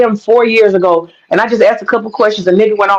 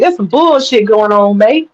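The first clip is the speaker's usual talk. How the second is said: spirit voice; slower than usual. Retold or imitated. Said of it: "Spirit said".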